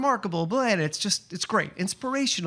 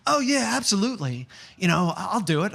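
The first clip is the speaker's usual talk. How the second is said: bright, higher eager agreement; light up and say yes gladly; 4 semitones higher than usual. Retold or imitated. Girl in a cape eagerly agreeing to the video, excited. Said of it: "the girl, like, lit up".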